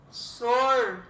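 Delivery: "sorvete" loud and very slow, sor... ve... te; split into syllables. Shown as a demonstration. Teacher showing three syllables, "sorvete" as sor... ve... te. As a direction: separate all three beats of "sorvete". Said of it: "que tem três sílabas".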